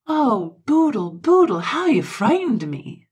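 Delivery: high, loud, overwrought cry; choked voice. A narrator's reading. Friend to the patient who frightened him, choked voice. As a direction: wail it in relief, slightly hammed-up. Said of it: "with a choked voice".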